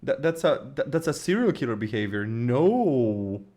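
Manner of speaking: horrified disbelief. Real, not acted. Streamer reacting to a child who strangled pets, horrified. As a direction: recoil in horror at what you just heard.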